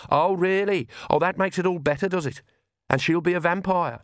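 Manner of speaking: high-pitched indignant retort; sarcastic young woman. A narrator's reading. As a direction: throw it back with scorn. Plays Agnes, sarcastic and indignant.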